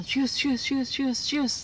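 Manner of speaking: high repeated "shus" swishes; playful swishing sound effect; sliding noise. Retold or imitated. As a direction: imitate something gliding along in little bursts. Imitating a snail sliding along.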